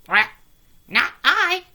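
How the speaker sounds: loud quacky refusal; a duck flatly refusing. A narrator's reading. Duck refusing the hen, loud and high. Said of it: "said the duck".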